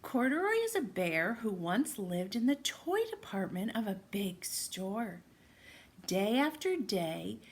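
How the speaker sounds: lively read-aloud for little listeners; storytime narration. Acted. Teacher reading Corduroy to her class, lively storytime voice. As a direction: tell it like a picture book on the rug. Reads picture book to children.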